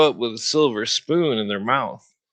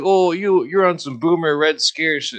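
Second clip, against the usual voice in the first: higher, a bit louder sneering mimicry; mocking commies; 5 semitones higher, 3 dB louder than usual. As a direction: parody their smug dismissal. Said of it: "they're like".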